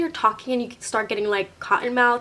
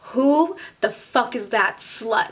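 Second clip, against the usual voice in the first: drawn-out, mildly raised demand; slow, punched-out mock scream; retold scream; slower than usual. Girlfriend confronting the girl in the corner, retold scream. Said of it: "Like, screaming it".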